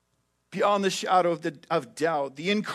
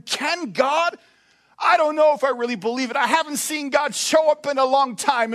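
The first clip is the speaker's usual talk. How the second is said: pleading, higher, anxious doubter; a worried believer asking whether God can; doubting believer; 5 semitones higher than usual. Retold or imitated. Voicing doubting believer's thoughts.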